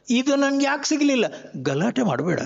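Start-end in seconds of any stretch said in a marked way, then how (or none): 0.1-1.2 higher, fast, mock self-pitying whine; whiny complaint. Swami voicing a discontented devotee, mock whine. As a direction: imitate a sulking man asking why not me.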